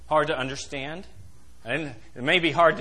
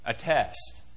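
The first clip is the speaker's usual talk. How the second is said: A test, dropped much softer and lower; quiet echo; 7 semitones lower, 7 dB quieter than usual. Acted. Preacher echoing the key word to the congregation, hushed. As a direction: let test sink in under the breath.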